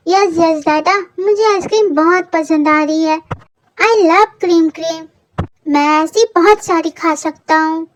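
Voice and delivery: lightly voiced little boy, delighted; a small boy gushing over his ice cream; childish voice. Little Kook telling his daddy he loves ice cream, light childish glee.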